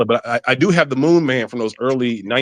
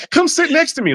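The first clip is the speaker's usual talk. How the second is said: date voice. Pretend. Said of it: "You know".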